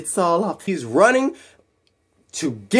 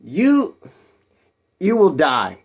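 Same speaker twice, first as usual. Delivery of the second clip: put-on hesitant try at a Russian accent; attempted Russian accent; slower than usual. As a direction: feel out a Russian accent, pausing after the first word. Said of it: "What's a Russian accent?".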